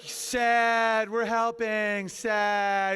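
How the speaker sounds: drawn-out, sing-song mock sympathy; mock pity. Comic mimicking the do-gooders over the sign, mock pity. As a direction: stretch each word in fake concern. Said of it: "are all like".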